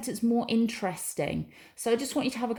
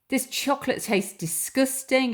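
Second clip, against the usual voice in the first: mock disgust; 5 semitones higher than usual. Shown as a demonstration. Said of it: "we're saying it with some passion in our voice".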